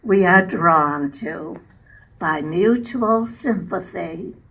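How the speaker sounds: measured poem reading in short phrases; unhurried recitation, line by line; poem recital. Acted. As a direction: read verse aloud, pausing after each phrase. Recites her own poem.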